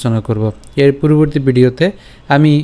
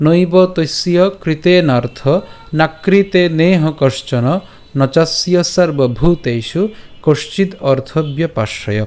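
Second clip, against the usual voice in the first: slow spoken shloka with falling phrase ends; verse recitation; slower than usual. Shown as a demonstration. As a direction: recite it deliberately, without a tune. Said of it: "প্রথম থেকে যদি আরেকবার বলি".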